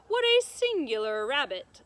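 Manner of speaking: put-on loud, delighted old lady; an elderly lady admiring the rabbit; admiring exclamation.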